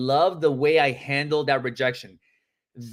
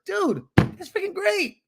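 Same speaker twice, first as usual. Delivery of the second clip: very high, drawn-out delight; slow, thrilled exclamation high in pitch; upswing tone. Shown as a demonstration. Agent to a friend who has a realtor, upswing tone. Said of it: "how to have an upswing in your tone".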